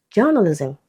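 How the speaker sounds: "journalism" stressed on JOUR; first-syllable stress. Shown as a demonstration. Teacher showing suffix keeps root stress, first-syllable stress. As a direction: keep the stress at the start of "journalism". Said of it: "stressed on the same syllable as the root".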